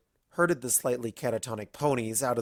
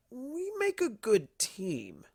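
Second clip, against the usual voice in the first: unfinished thought; 11 semitones higher, 3 dB quieter, much slower than usual. Acted. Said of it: "his tone indicated he wasn't done".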